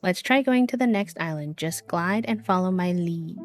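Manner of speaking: sing-song voice. Acted. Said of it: "sing-songs his voice".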